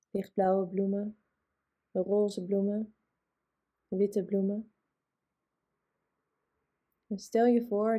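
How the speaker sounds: calm guided relaxation, long pauses between phrases; unhurried yoga nidra guidance; guided meditation. Acted. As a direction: lead a body relaxation, leaving space after each phrase.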